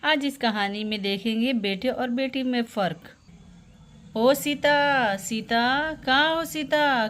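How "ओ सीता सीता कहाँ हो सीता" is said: drawn-out call to a daughter. Acted. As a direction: call out for someone in another room. Mother calls out for her daughter.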